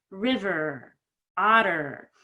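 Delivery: "river, otter" with full er endings; strong final ER. Shown as a demonstration. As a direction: pull the tongue back for each er in river and otter. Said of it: "make the E R good".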